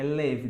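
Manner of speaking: "live" with a short E-like vowel, lev; correct live. Shown as a demonstration. Teacher fixing "I live in Moscow", "live" said lev. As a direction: say "live" closed like lev, the verb morar. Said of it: "o morar é live".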